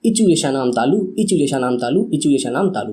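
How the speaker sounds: steady chanting recitation of the formula; recitation drill. Shown as a demonstration. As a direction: recite it like a rote memory drill. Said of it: "पाँच से छह बार कर लो".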